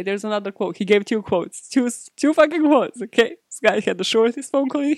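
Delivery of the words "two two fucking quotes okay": louder, higher, fed up; exasperated outburst. Real, not acted. Mocking the article's two quotes, exasperated. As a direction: throw your hands up at it.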